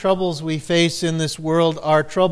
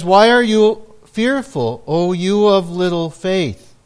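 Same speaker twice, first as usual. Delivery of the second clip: mild scolding; 2 semitones higher, 5 dB louder than usual. Retold or imitated. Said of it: "scolds them back, albeit mildly".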